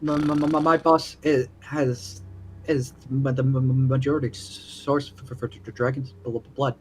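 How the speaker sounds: nervous, halting stutter; stuttering character. Acted. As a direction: stammer through every word. Character stammers while pleading.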